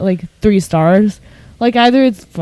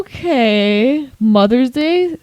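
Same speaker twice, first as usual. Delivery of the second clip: higher, incredulous rising okay; sarcastic disbelief; 5 semitones higher, much slower than usual. Real, not acted. Mocking a customer review to her coworker, sarcastic incredulous tone. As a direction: scoff at how obvious it is.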